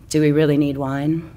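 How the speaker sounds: bold intoning. Acted. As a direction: say it like a confident seducer. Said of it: "he intones boldly".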